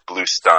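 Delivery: "Stein" rhyming with "mine"; correct name pronunciation. Shown as a demonstration. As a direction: say "Stein" with a long eye vowel. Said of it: "Just for the record".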